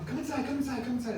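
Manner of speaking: a touch of an excited nephew calling them in; excited Arturo. Retold or imitated. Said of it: "Arturo's really excited".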